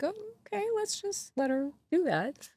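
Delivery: hesitant, hushed quote of giving in; mock reluctant okay. Quoting reluctant bosses settling.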